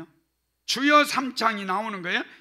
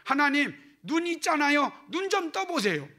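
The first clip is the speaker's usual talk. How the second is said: higher, coaxing plea; casual pleading paraphrase; 5 semitones higher, 3 dB louder than usual. Shown as a demonstration. Pastor paraphrases the verse as a casual, coaxing plea. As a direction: nudge God like a friend. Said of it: "이런 의미예요".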